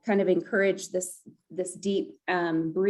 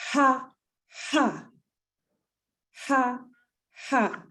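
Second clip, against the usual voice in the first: chest ha ha; 4 semitones higher, slower than usual. Shown as a demonstration. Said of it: "put your hands on your chest".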